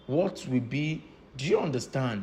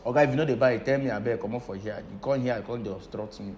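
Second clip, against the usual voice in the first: rude fuel seller; faster than usual. Retold or imitated. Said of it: "Person will call".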